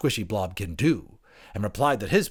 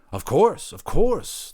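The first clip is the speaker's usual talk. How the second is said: higher, louder hasty yes; eager agreement; 9 semitones higher, 8 dB louder, much slower than usual. Acted. Anthropologist hurriedly agreeing with the creature, higher. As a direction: agree fast to please.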